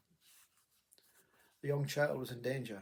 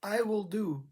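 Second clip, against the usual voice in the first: protective command; 6 semitones higher, 5 dB louder than usual. Retold or imitated. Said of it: "there's no one saying to the child".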